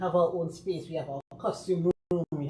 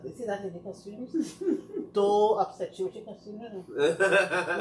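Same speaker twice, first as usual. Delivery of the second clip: laughing quote; 3 semitones higher than usual. Retold or imitated. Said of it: "and I said".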